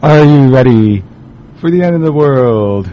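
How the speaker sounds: loom over the listener like a villain. Acted. Radio host opens with doom line.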